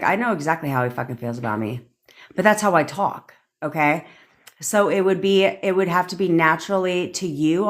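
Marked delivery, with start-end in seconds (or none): 0.0-1.9 hushed private certainty; whispered inner voice. Shown as a demonstration. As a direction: whisper it to yourself. Voicing her inner conversation.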